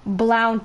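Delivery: "brown" said as "blown" to rhyme with town; blended slip. Real, not acted. Player mixing up black and brown says "brown" as "blaun". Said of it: "so I mixed it with".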